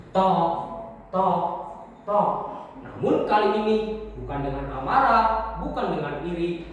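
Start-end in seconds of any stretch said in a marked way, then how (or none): 0.1-2.3 spaced hammer knocks; ketukan palu. Acted. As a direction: tap it out like hammer blows. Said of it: "Ia mengangkat palunya". (tiruan bunyi palu berjarak)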